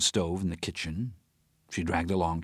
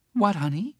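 lightly voiced friend, higher and upset; a worked-up friend ranting about the case; Teresa's agitated voice; 6 dB louder than usual. Teresa rants to Howard about the judge, agitated.

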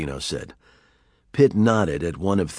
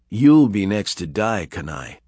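coldly; 4 dB louder than usual. Acted. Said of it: "said Pitt coldly".

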